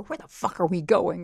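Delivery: retold irritated demand to the driver; irritable. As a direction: put mild irritation into the question. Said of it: "I'm, like, li-, really irritable".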